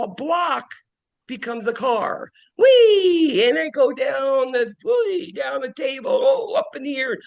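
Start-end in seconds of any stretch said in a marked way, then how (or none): 2.6-3.5 put-on high gleeful whee like a child; excited child's whee; playful whee. Child playing with toy car. 3.5-7.2 put-on higher, lightly excited child play; a hint of a playing toddler; playful child.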